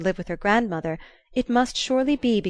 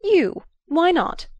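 high, loud, sharp snap back; sharp retort; 10 semitones higher, 6 dB louder, slower than usual. Acted. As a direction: jerk the question right back at him. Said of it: "she jerked back at him".

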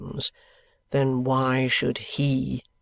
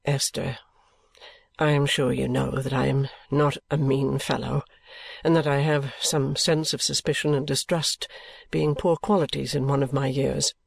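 put-on low, subdued young man's voice; 7 semitones lower than usual. A narrator's reading. Richard replying after Esther's reproach, subdued. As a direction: answer low and chastened. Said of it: "he replied in a subdued voice".

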